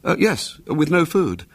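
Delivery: lightly voiced solemn boy; a hint of mock gravity. A narrator's reading. William solemnly confirming to his aunt, a hint of gravity.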